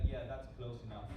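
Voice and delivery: low, unbothered acting of giving in; resigned reply. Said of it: "And I'm like".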